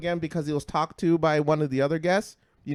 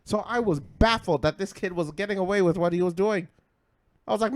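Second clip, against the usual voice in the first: ordinary talk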